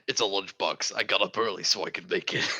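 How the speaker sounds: lightly voiced noir detective; a hint of a gruff gumshoe. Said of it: "my Gumshoe voice".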